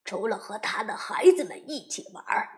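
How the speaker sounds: sharp, disapproving Mr Beaver; a hint of a sniffy beaver; scoffing beaver.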